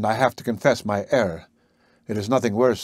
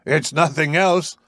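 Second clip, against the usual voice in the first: a touch louder and higher, slowed; a confident, lightly raised retort; understated mock shout, no laugh; mild shout; 4 semitones higher, slower than usual. A narrator's reading. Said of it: "shouted the professor with a loud laugh".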